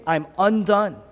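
high, loud, acted lament; anguished cry. Jesus undone on the cross, loud anguished lament. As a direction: cry out as one coming apart.

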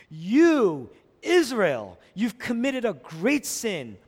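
mildly acted solemn proclamation; declaring to Israel. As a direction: call out the charge, stretching the words. Moses addressing Israel's great sin.

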